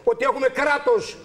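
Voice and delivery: impassioned, emphatic angry rant; real anger. Real, not acted. Aggrieved man railing at the state and police, angry. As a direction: hammer out each outraged phrase. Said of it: "Πάνω στην οργή σας τώρα".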